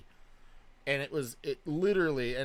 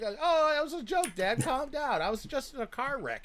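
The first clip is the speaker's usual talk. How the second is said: laughing; 13 semitones higher, 5 dB louder than usual. Retold or imitated. Retelling his defence to dad.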